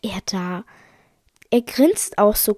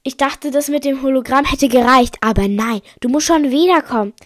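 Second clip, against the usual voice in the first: loud, rising complaint; exasperated; 3 semitones higher, 6 dB louder than usual. Acted. Angry confrontation in story.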